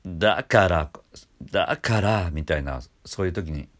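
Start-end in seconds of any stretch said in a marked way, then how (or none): 0.1-2.3 throat squeezed, creaky scoop up; creaky だから, rising from below; edge voice. Shown as a demonstration. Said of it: "喉を絞るような".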